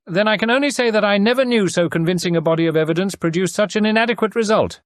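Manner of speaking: an amused lord wryly doubting the evidence; Lord Peter. A narrator's reading. His lordship to his wife, dry ironic lord.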